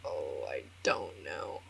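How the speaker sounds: hushed, breathy little admission; soft whispered oh I don't know; whispered helpless reply. Retold or imitated. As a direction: whisper it like a sheepish shrug. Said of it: "And I'm like".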